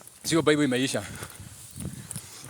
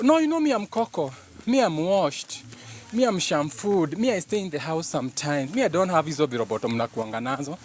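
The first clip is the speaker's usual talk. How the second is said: higher, proud pampered dog voice fading toward plain; voicing the dog; 3 semitones higher than usual. Dog boasts to stray dogs he is clean and pampered, proud high voice. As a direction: show off, chin up, to the strays. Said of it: "kupea maumbwa zingine story".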